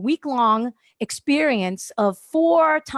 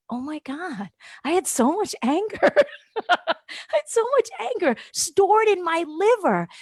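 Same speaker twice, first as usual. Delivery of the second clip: laughing; 6 semitones higher than usual. Retold or imitated. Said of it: "I started laughing so loud".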